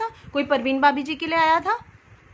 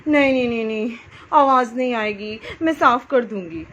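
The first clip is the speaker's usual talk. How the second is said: mock Jaya Bachchan; 3 dB louder than usual. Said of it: "तो आपने कैसे बोला?".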